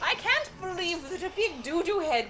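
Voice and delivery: grande dame. Pretend. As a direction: sniff like an old queen. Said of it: "That's real Queen Elizabeth stuff".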